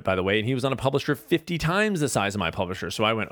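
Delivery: normal talking voice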